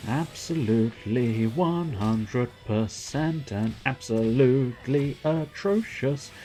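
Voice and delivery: slow, drawn-out odd alien voice; lightly voiced alien trying to pass as human. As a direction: speak like an alien faking humanity. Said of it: "I go into strange voices".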